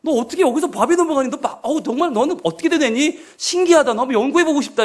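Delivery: lightly acted scolding mother; sarcastic mother. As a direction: needle the child like an exasperated mum. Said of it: "이렇게 나오는 거죠".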